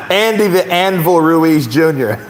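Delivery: slow announcement through laughter; amused. Real, not acted. Host savours the fighter's nickname, amused and laughing. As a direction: draw the name out, tickled by it.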